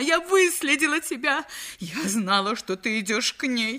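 high accusing wifely voice; lightly voiced jealous wife. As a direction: fling the accusation at him.

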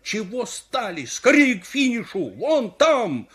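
high, urgent shout; loud, alarmed hurrying cries; frantic yelling. Acted. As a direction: yell as if you'd been robbed. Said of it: "вопит, словно его ограбили".

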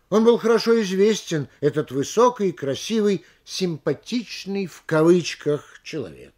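громкое начало, «симпатичный в кавычках» медленнее, с нажимом; замедли и подчеркни «симпатичный в кавычках», как диктор; произнесённые кавычки. Shown as a demonstration. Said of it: "после закавыченного слова говорить в кавычках". (дикторская подача с выделенным «симпатичный в кавычках»)

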